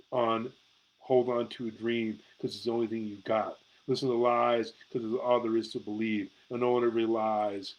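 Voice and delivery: measured spoken-word recital; performing a poem on a livestream; poetry reading. Acted. Reads own poem aloud.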